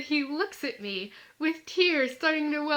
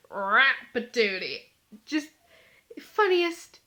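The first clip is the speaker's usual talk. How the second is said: "Rat-patootie" said with a giggle, slow; giggly rat-patootie; 3 dB louder, slower than usual. Retold or imitated. Teasing friends in the pew, giggly "Rat-patootie".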